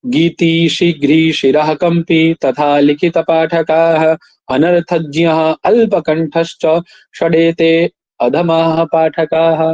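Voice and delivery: slow, measured Sanskrit chant; slow verse recitation. Shown as a demonstration. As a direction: recite the verse slowly and evenly. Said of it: "reciting Sanskrit verse". (श्लोक को धीरे, नपे-तुले स्वर में पढ़िए)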